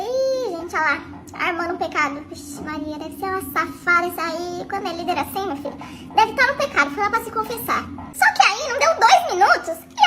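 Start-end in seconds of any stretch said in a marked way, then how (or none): 0.0-4.7 quiet muttered inner thought; thinking it to herself, hushed. Retold or imitated. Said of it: "já logo pensei". (pensamento baixinho)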